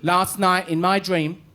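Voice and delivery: slow, weighty accusation; wife building to the reveal, slowly; wife accusing. Retold or imitated. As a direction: drag it out like a charge. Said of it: "She went".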